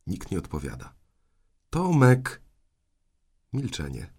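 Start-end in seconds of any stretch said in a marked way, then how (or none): 1.7-2.4 put-on loud, raised call for the boy. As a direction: call out the name, drawn high and loud. Aunt calls the boy again.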